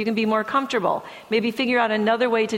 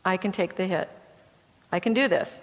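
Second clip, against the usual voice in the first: softer, steady reassurance to yourself; quiet self-talk; 3 semitones lower, 4 dB quieter than usual. Shown as a demonstration. Anxious student telling themself to take the hit, quietly. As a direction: repeat it to hold your ground. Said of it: "they can say to themselves".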